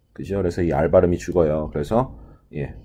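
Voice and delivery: normal talking voice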